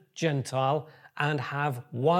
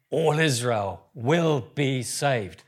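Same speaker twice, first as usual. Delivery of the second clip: slow reading; 2 semitones lower, slower than usual. Real, not acted. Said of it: "just say it with me".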